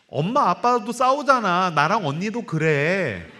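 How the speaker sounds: lightly voiced child explaining to mom. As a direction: plead slowly like a little girl. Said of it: "두 번째 말이".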